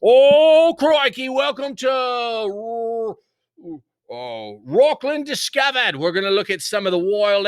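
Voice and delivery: high, loud Aussie nature-show host, crikey and all; Australian accent, hammed-up documentary host; Australian wildlife host accent. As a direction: play an excited Australian croc hunter. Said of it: "and I like accents".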